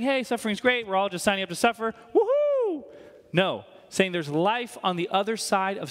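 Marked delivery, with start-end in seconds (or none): 0.0-2.8 sarcastic whoop that mocks the misreading; sarcastic mock cheer. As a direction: play the cheerleader for suffering, tongue in cheek. Mocking wrong idea, then rejects it.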